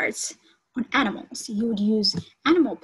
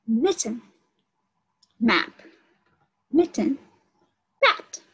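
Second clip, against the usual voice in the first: sounding out; 3 dB louder than usual. Shown as a demonstration. Teacher to the class, sounding out word pairs slowly. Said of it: "Let's listen".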